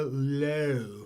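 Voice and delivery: Lowe drawn out slowly, rounded, in a mannered put-on vowel; Cage's odd Lowe. Podcaster mimicking Cage's character saying his own name, mannered. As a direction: say Lowe the way Cage says it in the film. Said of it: "that's how he talks in the film".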